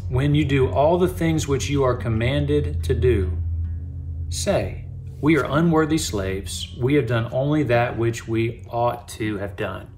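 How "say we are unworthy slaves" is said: ordinary talk, nothing marked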